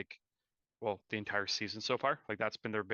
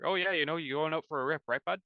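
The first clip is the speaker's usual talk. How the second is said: imitated Canadian stereotype; 5 semitones higher than usual. Mocking a coworker's talk, hammed-up Canadian accent. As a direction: parody the over-the-top Canadian. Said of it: "a typical Canadian stereotype".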